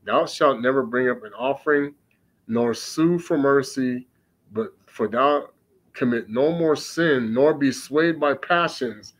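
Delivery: put-on measured solemn reading of old scripture. Preacher reading scripture aloud to his listeners, solemn. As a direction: read it like holy writ, unhurried.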